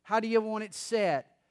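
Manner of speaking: mildly sarcastic wife, drawing out the last words; mock-servile question with understated sarcasm. Wife complaining about doing everything asks her husband, mildly sarcastic. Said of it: "sarcastically, she said".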